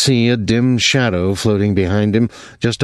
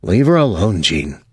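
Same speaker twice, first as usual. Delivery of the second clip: calm. Acted. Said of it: "Thomas said calmly".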